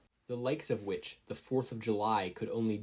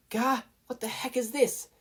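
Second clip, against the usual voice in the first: high, loud startled yell; 13 semitones higher, 4 dB louder than usual. A narrator's reading. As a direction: Katsuki hit by foam, yelling high. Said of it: "Katsuki yelled".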